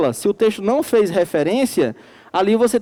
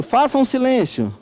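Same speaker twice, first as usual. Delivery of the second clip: slower, raised-pitch command; as an order; 4 semitones higher than usual. Shown as a demonstration. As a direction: give the order, a bit higher and slower. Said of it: "Uma ordem". (ordem, mais aguda e lenta)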